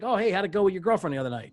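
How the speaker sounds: eager to show you remembered; quick cheerful check-in; friendly recall. Retold or imitated. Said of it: "say back to them, like".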